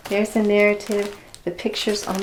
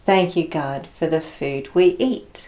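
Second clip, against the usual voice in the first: put-on slow, clear prayer line for children to echo; prayer line to repeat; 2 semitones lower than usual. Shown as a demonstration. Teacher leading children in a thank-you prayer, slow and clear. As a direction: say each line slowly so they can copy. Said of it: "I'm gonna say a line, and then you're gonna copy me".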